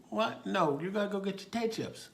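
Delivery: put-on high, loud protest to a kid; coaxing a child. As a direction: urge a little child along. Officer coaxing a small child.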